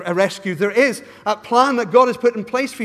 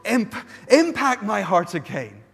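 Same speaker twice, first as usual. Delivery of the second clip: pleading prayer; 3 semitones lower than usual. Shown as a demonstration. Preacher voices a returning believer's prayer, slow and earnest. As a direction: ask God to move your heart, slowly.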